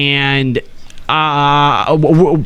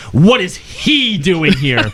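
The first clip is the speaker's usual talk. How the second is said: slow disbelieving question; much slower than usual. Retold or imitated. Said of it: "her first reaction was".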